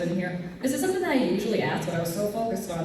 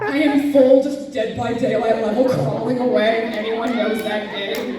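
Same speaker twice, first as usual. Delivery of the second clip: excited retelling; 2 semitones higher, 5 dB louder than usual. Retold or imitated. Retelling crawling away from chainsaw.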